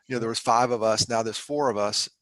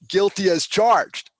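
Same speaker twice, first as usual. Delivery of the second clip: guilty as charged; 8 semitones higher, 10 dB louder, much slower than usual. Real, not acted. Self-mocking admission after laugh.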